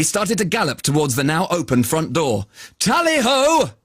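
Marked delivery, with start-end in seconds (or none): 2.8-3.7 excited cry. Acted. Galloping off.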